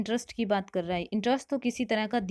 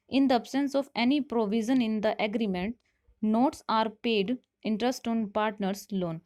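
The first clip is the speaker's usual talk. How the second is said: reading the question out slowly; measured, deliberate classroom read; slow quiz reading; much slower than usual. Shown as a demonstration. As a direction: spell out each option for students.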